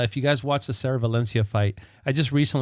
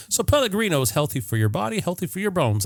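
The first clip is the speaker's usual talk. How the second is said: promo voice; 5 semitones higher than usual. Pretend. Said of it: "That's a good promo".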